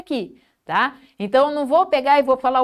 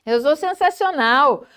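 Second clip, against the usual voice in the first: orgulho mais contido; autoelogio animado; 3 semitones higher than usual. Shown as a demonstration. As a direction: afirme com convicção alegre. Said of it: "Se elogie também". (elogio a si com leve entusiasmo)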